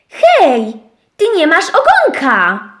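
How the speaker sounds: głośniejszy okrzyk; zawołaj głośniej do szczura. Acted. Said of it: "krzyknęłam". (owieczka głośno woła do szczura)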